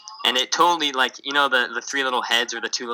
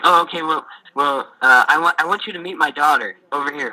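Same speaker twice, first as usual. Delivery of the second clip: higher, keen and pushy offer; eager dad pitch; 4 semitones higher, 4 dB louder than usual. Retold or imitated. Missionary voicing the dad pushing his daughter, higher. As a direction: push your daughter on the visitor, keen and eager.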